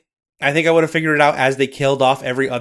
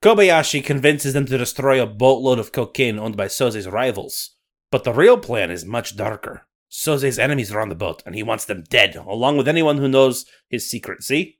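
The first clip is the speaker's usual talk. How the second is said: put-on Scottish accent. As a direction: narrate like a Highland storyteller. Nessie narration.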